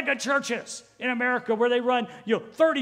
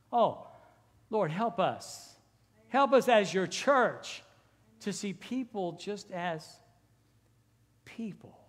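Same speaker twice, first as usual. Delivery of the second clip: slow, hushed prayer fading to a whisper; slower than usual. Real, not acted. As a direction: pray it slowly, drawing inward. Short prayer inside the sermon.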